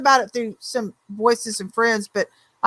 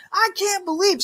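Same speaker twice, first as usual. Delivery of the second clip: imitating a fed-up friend; 9 semitones higher, 4 dB quieter than usual. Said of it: "She goes".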